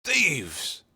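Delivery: high, loud yell of alarm; crying out. Acted. Husband finds his money bag gone, loud yell. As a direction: shout it up high for help. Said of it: "and was crying".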